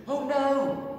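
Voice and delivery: high, loud dismayed oh no; dismayed little bear. Acted. Teddy at the empty cocoon, high dismayed cry. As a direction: gasp out in dismay.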